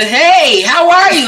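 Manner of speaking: high, bright sing-song hello; mock friendly greeting. Mimicking a clueless partner's cheery hello. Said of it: "it's like".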